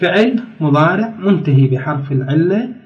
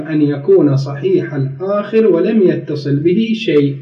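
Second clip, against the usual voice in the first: slow, deliberate formal Arabic read-out; formal text reading; slower than usual. Real, not acted. Teacher reads the rule's wording to students, formal reading. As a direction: read each clause out slowly. Reads the grammar book aloud.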